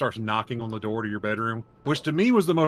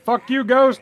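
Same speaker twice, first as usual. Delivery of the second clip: high, loud retold yell at a ghost; defiant yell; 13 semitones higher, 6 dB louder, slower than usual. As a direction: shout it defiantly, voice jumping up. Acts out yelling at a ghost.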